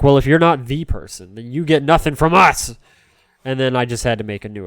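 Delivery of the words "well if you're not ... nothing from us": loud, hammed-up rejection; mock indignant refusal. Twitch refusing to give a new name, mock-indignant and loud. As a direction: lay down the law, playfully loud. Acting dismissive reply in invented story.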